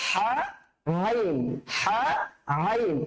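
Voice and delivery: "হা" and "আইন" both from mid-throat; throaty Arabic "হা", then drawn "আইন"; mid-throat letters. Shown as a demonstration. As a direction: alternate "হা" and "আইন" from the same throat spot. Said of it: "উচ্চারণটা কিভাবে হবে".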